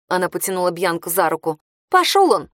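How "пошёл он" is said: выше, с вызовом; отмахнись от него весело; задорно. A narrator's reading. Хейли решительно отмахивается. (Хейли решает забыть парня, задорно)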